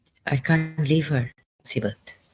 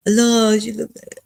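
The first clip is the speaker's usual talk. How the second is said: near tears; 7 semitones higher, 4 dB louder than usual. Real, not acted. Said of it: "I'm going to start crying".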